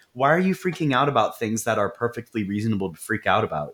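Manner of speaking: lightly imitated dismissive husband; a touch of patronizing disbelief; gaslighting husband. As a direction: make her feel silly for worrying, understated. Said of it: "doing that husband gaslight thing".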